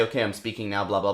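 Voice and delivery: low, soft talking voice; low speaking voice. Shown as a demonstration. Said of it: "A lot of people say".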